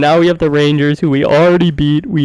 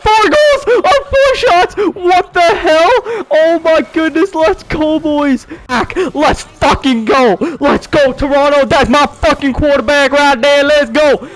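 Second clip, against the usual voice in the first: hyped celebration; 12 semitones higher than usual. Real, not acted. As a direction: cheer your team on at full hype. Celebrating comeback goals.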